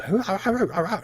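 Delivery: high hyena-like whooping; gnoll whoops. Acted. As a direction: yip like excited gnolls. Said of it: "you hear the gnolls".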